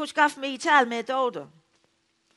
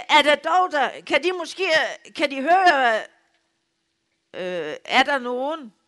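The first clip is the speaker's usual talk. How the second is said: shouting into the phone; 4 semitones higher than usual. Retold or imitated. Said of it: "Jeg råber nogen af så højt".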